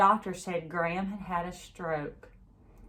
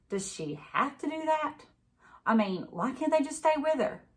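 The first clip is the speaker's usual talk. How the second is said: a lightly voiced young girl, higher and plaintive; pleading girl; 8 semitones higher than usual. A narrator's reading. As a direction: ask it like a hurt child who doesn't understand. Girl pleads with her mother.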